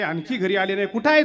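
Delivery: high, loud alarmed question; wife near panic over missing husband; shrill-edged demand, rising. Retold or imitated. Worried wife asks sethji.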